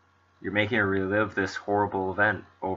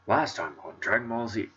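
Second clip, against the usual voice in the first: a hint of a nineties cartoon announcer; dramatic cartoon recap announcer voice; 2 semitones higher than usual. Shown as a demonstration. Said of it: "sound like, uh, the announcer guy for every nineties cartoon ever".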